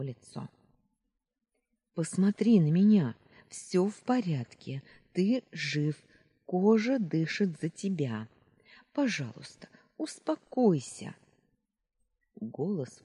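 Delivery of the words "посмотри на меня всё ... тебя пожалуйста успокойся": higher, loud urgent pleading; frantic reassurance. Acted. Luna comforting and pleading.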